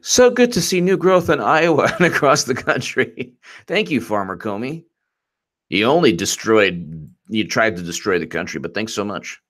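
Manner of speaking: lightly voiced fake-sincere politician; mocking Comey. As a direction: read it like a smug chirpy post. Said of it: "he's like".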